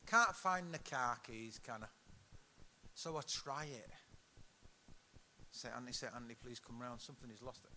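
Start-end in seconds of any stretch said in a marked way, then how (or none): 5.5-7.7 acted-out prayer, softer and low-key; murmured prayer. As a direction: quietly recite a little plea to a saint. Acts out praying for lost keys.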